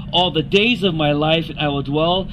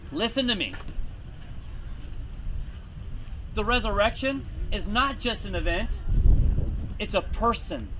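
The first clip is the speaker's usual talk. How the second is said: much softer, gentle voice of Jesus; hushed Jesus; 10 dB quieter than usual. Retold or imitated. Jesus quietly tells Martha to listen, hushed.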